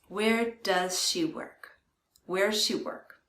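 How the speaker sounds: "does" shrinks to a z sound in "Where does she work?"; quick "Where's she work"; does reduced. Shown as a demonstration. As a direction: say "does" like "'s", fast. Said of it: "saying it slowly and clearly".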